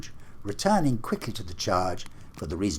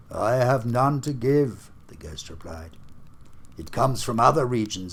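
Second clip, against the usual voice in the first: higher, louder, lamenting spirit; anguished ghost; 4 semitones higher, 5 dB louder than usual. Acted. Marley's ghost laments to Scrooge, anguished and loud. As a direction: wail your endless doom. Ghost speaks in read story.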